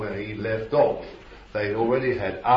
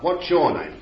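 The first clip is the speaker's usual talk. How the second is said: mock exorcist demand; 8 semitones higher, 5 dB louder than usual. Mocking exorcists questioning demons.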